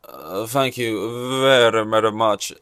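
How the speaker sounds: a light, slow southern drawl in the style of a famous singer; a half-hearted singer's thank-you, slow and southern; impression of a famous singer. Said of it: "I don't really know who that singer is by that impression".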